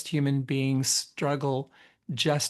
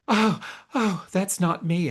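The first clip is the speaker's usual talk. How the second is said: lightly acted, higher-pitched unease; mild retold nervousness; 5 semitones higher than usual. Stylist retelling a client's first look in the mirror, mildly nervous. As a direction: imitate a client taken aback, high on the "oh"s. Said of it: "she was really nervous".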